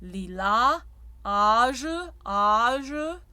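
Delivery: âge with a dark, full A; dark French A. Shown as a demonstration. Coach demonstrating the dark A to singers. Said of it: "but your bright ah".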